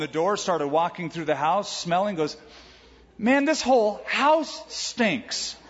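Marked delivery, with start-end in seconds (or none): 3.2-5.5 put-on high, slow, whiny old man's complaint; cranky old grandpa. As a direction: whine it like a grumpy old codger just woken up. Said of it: "cranky old man".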